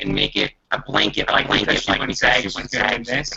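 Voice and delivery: glitchy cyborg-like connection; robotic Dalek-sounding voice; half robot voice. Real, not acted. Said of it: "Ralph, you sound like a cyborg".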